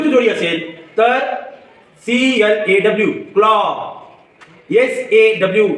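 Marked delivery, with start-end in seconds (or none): 3.3-3.6 क्लॉ ending on a long aw; open aw sound. Shown as a demonstration. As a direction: model क्लॉ, stretching the final aw. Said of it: "ए चा उच्चार अ असा करायचा". (क्लॉ मधला ऑ लांबवून)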